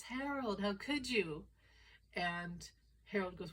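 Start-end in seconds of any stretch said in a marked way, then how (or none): 0.0-1.4 slightly higher, acted reproach on the name; a touch of wifely outrage, pitched up at first; lightly voiced scandalized wife. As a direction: play a mildly hammed-up betrayed wife. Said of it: "and the wife says".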